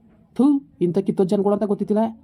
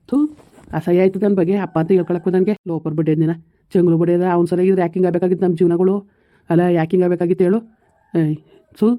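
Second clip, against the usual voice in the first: louder, bitter ranting at the father; son's furious complaint about his father; angry outburst; 4 dB louder than usual. Acted. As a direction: spit out the disgust. Son rages about father.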